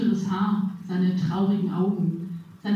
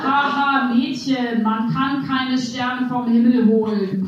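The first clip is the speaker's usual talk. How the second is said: a hint of a condescending know-it-all, mock laugh up front; lightly voiced man setting the girl straight; lecturing correction; 2 semitones higher, 3 dB louder, slower than usual. Stranger at the kiosk corrects her, lightly mock lecturing. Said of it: "korrigierte er und dozierte".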